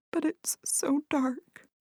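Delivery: whispering. A narrator's reading. Worried whisper in the dark.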